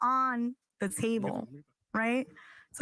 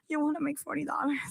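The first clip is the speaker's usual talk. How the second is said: mildly put-on porno come-on; 3 semitones higher than usual. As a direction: lightly play a porn-film proposition. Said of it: "I had to say it in my porno voice".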